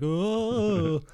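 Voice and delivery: high mock ooh; middle school ooh. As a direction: coo like a kid. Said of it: "middle school kinda like".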